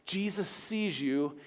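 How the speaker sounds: soft. Real, not acted. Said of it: "sermon, soft emphasis".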